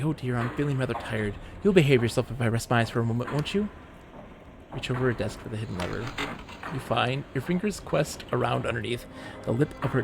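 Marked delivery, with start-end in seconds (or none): 0.0-3.7 theatrical tiredness. Acted. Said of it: "She yawns theatrically".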